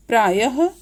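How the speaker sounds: प्रायः ending in an audible h; visarga as "ah". Shown as a demonstration. Teacher gives an example of visarga, प्रायः ending in "ah". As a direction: finish प्रायः on "ah". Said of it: "इसका उच्चारण अह की तरह होता है".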